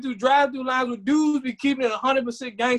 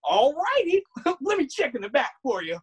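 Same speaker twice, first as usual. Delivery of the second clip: imitating eager clerk; 3 semitones higher than usual. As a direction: play an overly helpful store clerk.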